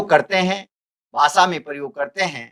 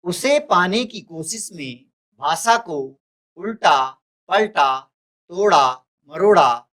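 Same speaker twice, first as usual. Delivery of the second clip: measured verse reading, pausing between short phrases; poem recitation. Acted. Teacher reads the poem aloud to students, measured recitation.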